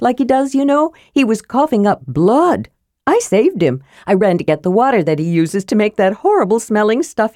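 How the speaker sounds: high, eager kender voice; proud, chattering Tass. Acted. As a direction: babble the tale of the rescue, pleased.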